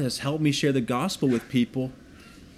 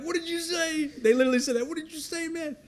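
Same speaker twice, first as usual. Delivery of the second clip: high, lightly voiced gang member challenge; mock tough guy. Pastor imitating a gang member questioning him. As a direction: throw it back like a surprised thug. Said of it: "And they're like".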